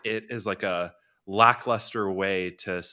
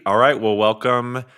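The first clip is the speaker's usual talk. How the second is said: slow, loud stage welcome; host introduction; 4 dB louder, slower than usual. Real, not acted. Host welcoming two guests onto the stage, slow and loud. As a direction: draw it out like an MC. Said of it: "host announcing guests onstage".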